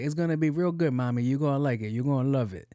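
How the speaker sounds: hammed-up Latino crew member voice; put-on Latino accent. Joking reply to lady asking about construction, put-on Latino accent. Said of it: "Why are you speaking like that?".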